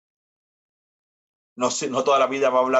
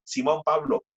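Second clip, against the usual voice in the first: high, sing-song call of names; father calling Simón and Pablo; calling the boys; 13 semitones higher than usual. Acted. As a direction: call out to your sons. Father calling his sons.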